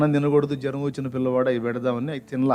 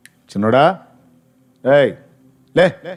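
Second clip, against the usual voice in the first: short, loud retold commands, spaced apart; calling to rouse; 7 dB louder, slower than usual. Stranger calls the dead boy to get up, loud command. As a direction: call the boy up, rising to a sharp order.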